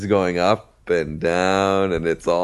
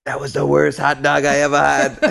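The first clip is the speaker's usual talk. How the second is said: high mock Caribbean confiding, fully voiced; imitated Caribbean patois; 6 semitones higher, 4 dB louder than usual. Friend confiding his regret about the hot dog, imitated Caribbean accent. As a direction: mimic a buddy's Caribbean accent, high-pitched. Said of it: "he just whispers in my ear".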